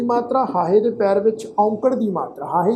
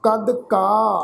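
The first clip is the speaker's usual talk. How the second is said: slow, measured Gurbani recitation; scripture recitation; slower than usual. Acted. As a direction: recite each phrase deliberately, with pauses and drawn-out vowels. Recites scripture between explanations.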